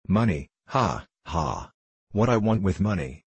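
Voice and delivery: a hint of a mocking Frenchman; lightly accented French gambler, amused at his debtor; touch of French accent; lightly voiced French gambler.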